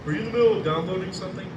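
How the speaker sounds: high, loud and fast; roommate impression. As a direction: blurt it out like a clueless roommate. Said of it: "going like".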